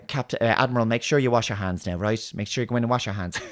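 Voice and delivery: mother-like reminder in a mild Irish lilt; soft Irish accent. Retold or imitated. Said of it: "fairly soft Irish accent".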